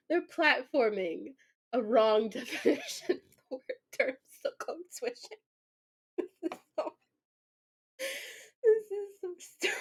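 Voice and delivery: helpless real laughter breaking up the words; laughing to tears. Real, not acted. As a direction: struggle to read through a laughing fit. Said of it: "I'm laughing so hard I might cry".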